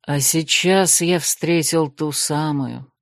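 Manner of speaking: slow, tender low voice. Acted. Desmond speaks of his chosen one, slow and tender. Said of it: "с нежностью в голосе произнёс".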